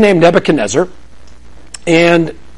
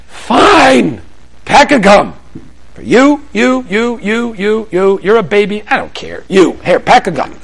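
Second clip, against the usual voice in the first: fed-up giving in; 3 semitones higher, slower than usual. Retold or imitated. Father giving in.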